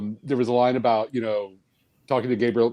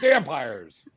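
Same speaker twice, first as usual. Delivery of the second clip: drawn-out, higher-pitched mock pitch; writer pitching ideas; 4 semitones higher, much slower than usual. Pitching in the writer's room, drawn-out mock suggestion. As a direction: stretch it slowly like a silly brainstorm. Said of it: "I would be in the writer's room going".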